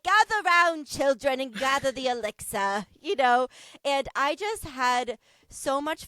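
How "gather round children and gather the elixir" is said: a hint of a storytelling witch. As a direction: beckon the kids like a playful witch. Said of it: "Can you do the witch voice?".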